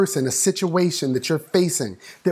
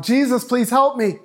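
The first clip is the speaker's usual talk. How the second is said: pretend scream; 9 semitones higher, 5 dB louder than usual. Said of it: "mustered up so much faith to scream out".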